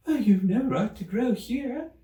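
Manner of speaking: high squeaky little creature voice; a small cross rodent complaining; peevish Dormouse. Acted.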